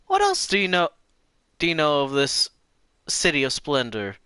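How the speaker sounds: put-on old lady voice. Lena voice, high.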